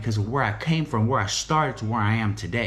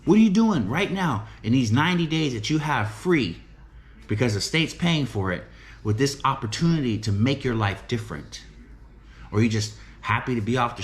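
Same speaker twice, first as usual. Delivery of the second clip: higher, fast, pressing questions; urgent mock challenge; challenging his guys; 3 semitones higher than usual. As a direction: push them hard to face the question. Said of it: "That's what I ask the guys".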